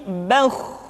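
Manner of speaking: "bauh" drawn out with a thick, rounded vowel; thick heavy kh. Shown as a demonstration. Teacher correcting the thin form, "bauh" said thick. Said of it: "menebal suaranya".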